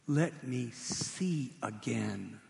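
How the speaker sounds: slow, drawn-out pleading; slow plea. Retold or imitated. Blind beggar asking Jesus for sight, slowly pleading. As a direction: let each word hang, begging.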